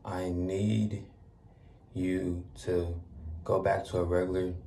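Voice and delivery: calm, measured meditation voice with pauses between phrases; guided meditation. Acted. Meditation guide easing listeners back to regular breathing, calm and measured. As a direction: ease them gently back into regular breathing, unhurried.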